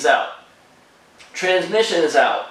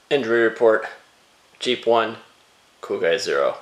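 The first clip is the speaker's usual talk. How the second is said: deep mock sports-score announcer; sportscaster voice; 6 semitones lower than usual. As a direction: read it like a deadpan scoreboard.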